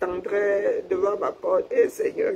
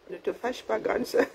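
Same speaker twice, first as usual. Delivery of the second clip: soft pleading sister; 7 dB quieter than usual. Retold or imitated. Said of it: "c'est en mode".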